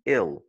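"ill" with a short, lax i; short vowel. Shown as a demonstration. Teacher showing learners the short sound, short vowel. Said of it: "tu dois utiliser le son court".

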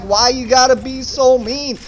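high-pitched, wounded complaint; indignant mock protest. Player protesting to his friend's killer, high indignant whine.

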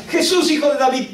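high pleading call; imitated shouting. Woman calls out to Jesus for a miracle, imitated shouting. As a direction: call out high to get his attention. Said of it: "ella empieza a gritar".

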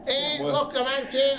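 even worse Liverpool accent attempt. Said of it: "and that's worse".

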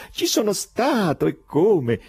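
high, merry laughing boast; laughing exclamation. A narrator's reading. The foreigner merrily owning up to the madhouse, laughing exclamation. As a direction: burst out laughing and keep it in the words. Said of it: "esclamò sempre ridendo".

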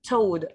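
"Toad" with a long clear O; careful teacher's "Toad", vowel drawn out; pronunciation demo. Shown as a demonstration. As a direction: model "Toad" slowly, falling at the end. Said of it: "like this".

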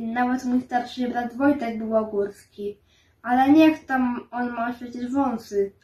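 plain reading voice

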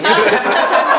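laughing. Real, not acted. Guest laughs at own bit.

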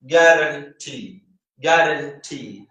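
guarantee said slowly, final TEE set apart; stress on TEE. Shown as a demonstration. Teacher confirming the answer guarantee, stress on TEE. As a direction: separate and hold the TEE of guarantee. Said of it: "ആ ടി മൂന്നാമത്തെ stress ചെയ്യുന്നു".

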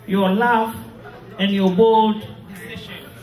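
solemn graveside address; mournful eulogy. Acted. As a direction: speak each line of farewell with heavy sorrow. Widow reads eulogy to husband.

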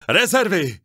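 bellowing. Acted. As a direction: holler the warning across the field. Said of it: "zahulákal huba u praporu".

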